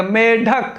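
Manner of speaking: मेढक with a hard retroflex ḍh, no flap; long me, then hard ḍhak in मेढक; correct pronunciation. Shown as a demonstration. Teacher showing how to read it, correct pronunciation. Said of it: "इसको इसी तरीके से पढ़ना है".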